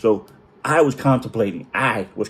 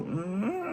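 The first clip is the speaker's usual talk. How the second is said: stifled whine; 9 semitones higher, 11 dB quieter than usual. Retold or imitated. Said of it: "sit there and go".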